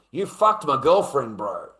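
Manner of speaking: slow, heated accusation; accusing. Retold or imitated. Man confronting his girlfriend's lover, accusing.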